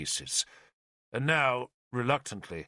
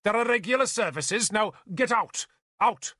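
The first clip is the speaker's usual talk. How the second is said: high, angry dismissal; ordering out; 9 semitones higher than usual. Acted. Bishop ordering the pilgrim out, high and angry. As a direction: drive him out the door.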